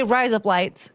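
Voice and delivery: light Aussie-style demonstration; mock Australian accent. Shown as a demonstration. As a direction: say it so it passes for Australian razor blades. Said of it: "sounds like razor blades in Australian".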